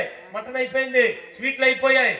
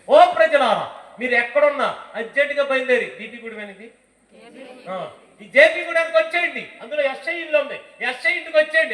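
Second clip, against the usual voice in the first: town crier call; 3 semitones higher, 4 dB louder than usual. Acted. Town crier announcing to village.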